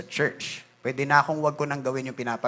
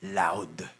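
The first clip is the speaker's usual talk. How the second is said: silently loud; 10 semitones lower, 7 dB quieter than usual. Shown as a demonstration. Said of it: "silently loud".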